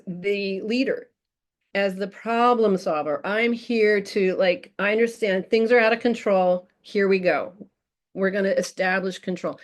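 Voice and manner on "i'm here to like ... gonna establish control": calm, steady, in-charge voice; firm but warm. Shown as a demonstration. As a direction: take charge gently, no sugar. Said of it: "Firm but warm".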